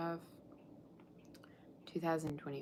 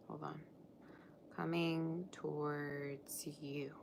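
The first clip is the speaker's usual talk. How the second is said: slow whisper while typing; 7 dB quieter, much slower than usual. Real, not acted. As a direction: breathe it out slowly.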